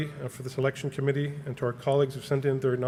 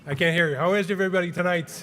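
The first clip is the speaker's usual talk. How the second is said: louder, higher hype-man crowd call; Rob; 5 semitones higher, 4 dB louder than usual. Acted. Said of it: "that's my best impression of Rob".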